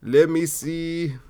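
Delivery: aged game-show host, slow and high; Steve Harvey. Shown as a demonstration. Comic imagining the host in twenty years, drawn-out impression. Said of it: "It's like Steve Harvey in twenty years".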